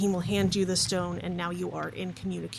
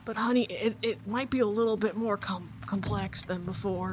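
sheepish father; 3 semitones higher, 5 dB louder than usual. Acted. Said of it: "who says".

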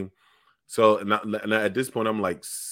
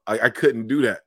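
normal talking voice

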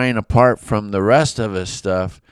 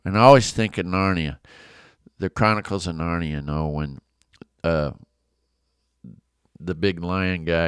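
ordinary delivery

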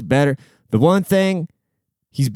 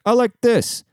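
much higher, mocking a groom whose fiancée runs things; 10 semitones higher than usual. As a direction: squeak it like a man who has no say. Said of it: "He's like".

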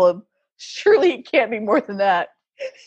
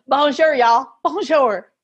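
put-on Arkansas-accented French; slower than usual. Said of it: "she had this Arkansas accent".

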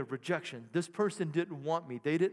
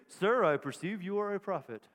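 guarded. Shown as a demonstration. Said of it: "Notice the tonality change".

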